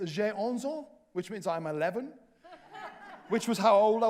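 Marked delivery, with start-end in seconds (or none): 0.1-0.9 "J'ai onze ans" in clumsy schoolboy French. Shown as a demonstration. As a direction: recite "J'ai onze ans" like a child's lesson. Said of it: "All I know how to say is".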